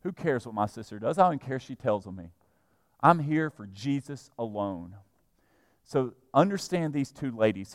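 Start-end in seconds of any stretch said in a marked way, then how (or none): 0.0-5.0 lower, calmly dismissive; unbothered resolve. Acted. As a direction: voice someone serenely ignoring complaints. Mary's unbothered thought, lower and softer.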